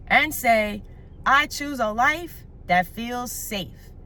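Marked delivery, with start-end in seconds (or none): 1.2-3.9 slow, with "safe" leaned on hard; stress on safe. Shown as a demonstration. Life coach giving viewers an affirmation to repeat, slow with "safe" stressed. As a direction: land the word "safe" slowly and firmly, so it lingers. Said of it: "I really want to emphasize the word safe".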